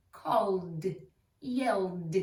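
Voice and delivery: "Called, yelled" each ending in a clear D; voiced D endings. Shown as a demonstration. Teacher showing ed after L, "Called, yelled" ending in D. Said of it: "They both sound like a D".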